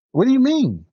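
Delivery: high-pitched puzzled question; retold bafflement. Boss to employee who wants his final paycheck first, retold bafflement. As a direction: act out her baffled reaction, pitch jumping up. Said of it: "she just looked at me like".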